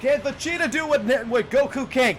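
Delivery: loud, high-pitched mock commentary; excited game hype. Gamer hyping Vegeta's move to the stream, hammed-up excited shouting. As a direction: shout it like a fight hype man, building up.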